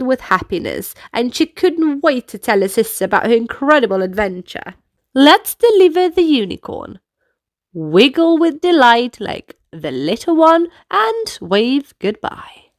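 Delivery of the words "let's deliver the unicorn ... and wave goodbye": put-on lively kids' dance leader; upbeat instructions for little dancers; movement coaching. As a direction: lead the children through the moves.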